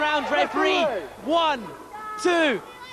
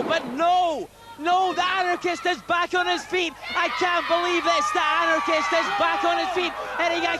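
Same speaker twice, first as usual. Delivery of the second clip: rising excited play-by-play; excited commentary; 4 semitones higher than usual. Acted. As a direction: call the action live. Live play-by-play.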